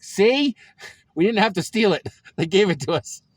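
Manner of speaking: triumphant laugh at dad; laughing gloat. Real, not acted.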